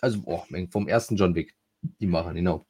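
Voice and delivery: mit Schluckauf sprechen. Real, not acted. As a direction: Worte vom Schluckauf unterbrochen. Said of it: "jetzt hab ich Schluck auf". (redet mit Schluckauf)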